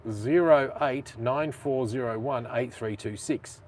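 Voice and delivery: phone number read out slowly and deliberately; slow, measured digit-by-digit delivery; slow dictation. Real, not acted. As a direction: spell out each digit slowly for listeners to copy.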